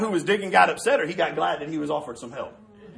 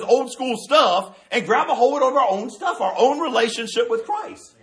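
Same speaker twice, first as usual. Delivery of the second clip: slow emphasis; 4 semitones higher, slower than usual. Real, not acted. Preacher slows for emphasis.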